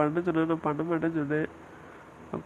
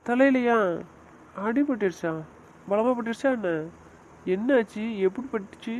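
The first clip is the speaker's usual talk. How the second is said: shocked question; 5 semitones higher than usual. Acted. Brother-in-law hears about head injury.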